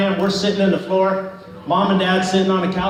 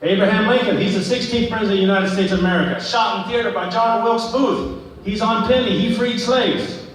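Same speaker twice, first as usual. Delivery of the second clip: higher-pitched acted recitation of facts; eager history recital; 3 semitones higher than usual. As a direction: recite it proudly to prove you know it. Acting out a citizenship history recital.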